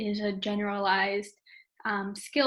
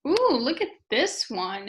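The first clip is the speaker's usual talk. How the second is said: teacher prompt; 4 dB louder than usual. Shown as a demonstration. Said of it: "you can feel free to show them".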